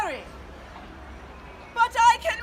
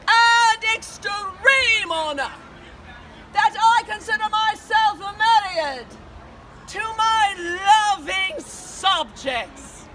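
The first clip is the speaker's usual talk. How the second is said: warm regal boom. Acted. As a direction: proclaim it to the crowd like a queen. Queen addresses her subjects.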